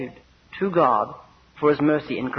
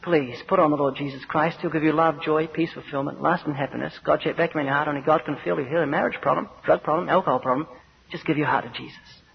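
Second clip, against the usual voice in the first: softly pleading, mildly earnest evangelist; understated imitation of well-meant zeal; sincere zeal; 3 semitones lower, 3 dB quieter than usual. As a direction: coax gently, dropping lower and softer toward the end. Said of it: "in sincere zeal without knowledge".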